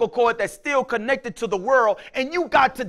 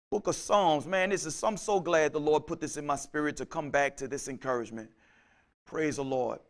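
much lower, much softer, intimate; hushed preaching; 4 semitones lower, 6 dB quieter than usual. Acted. Pastor drawing the congregation close, hushed and low. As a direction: lean in and say it low.

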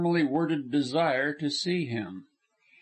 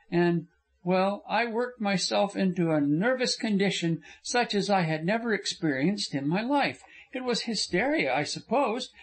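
a higher, earnest young woman's voice, only lightly put on; lightly voiced young woman; 4 semitones higher than usual. Frona insisting to Corliss she behaved badly, lightly raised young woman's voice. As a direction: lift the voice a little for the heroine, remorseful and insistent.

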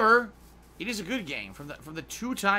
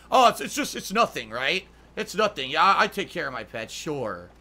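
mock dismissive; 6 dB louder than usual. Mocking abusive owner.

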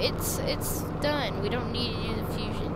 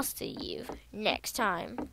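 whisper; 4 semitones lower, 6 dB quieter, much slower than usual. Pretend. Teasing outro whisper.

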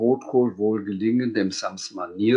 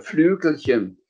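louder, higher exclamation; indignant call; 7 semitones higher, 4 dB louder than usual. Acted. Dragon objecting to Sams's remark, indignant cry. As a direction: throw Flügelchen back, offended. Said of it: "rief er".

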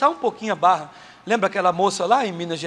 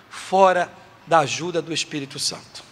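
ordinary talk, nothing marked

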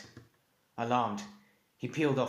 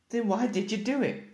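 high, loud angry demand; 13 semitones higher, 7 dB louder than usual. Acted. Rider demanding an answer from his dragon, high and loud. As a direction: bark the question at her. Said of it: "he demanded".

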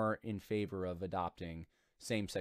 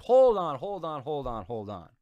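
loud interruption; 4 semitones higher, 9 dB louder than usual. Real, not acted. Interrupts quote in disbelief.

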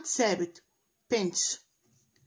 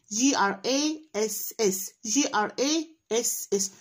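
spelling aloud; slower than usual. Shown as a demonstration. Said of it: "تقراها بصوت عالي".

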